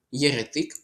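«Єретик» stressed on the final TYK; stress on third syllable. Shown as a demonstration. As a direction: land on the last syllable of «Єретик». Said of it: "наголос на третій склад". («Єретик» з наголосом на «тик»)

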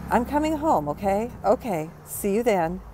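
chirpy phone goodbye. Acted. Pretend phone call.

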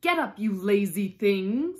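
loud, imperious wake-up order; loud command. A narrator's reading. The Queen wakes the sleeping griffin, commanding loudly.

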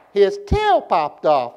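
slow, with "tail" drawn out and swooping; exaggerated inflection. Shown as a demonstration. Preacher teaching class a poem, exaggerated inflection. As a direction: stretch "tail" up, drop on "off". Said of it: "my voice goes up, y'all go up".

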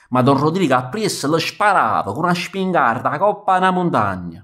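plain reading voice

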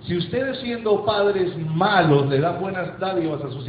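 measured, deliberate verse quote; slow down to quote the verse; slow scripture reading. Acted. Quoting scripture slowly.

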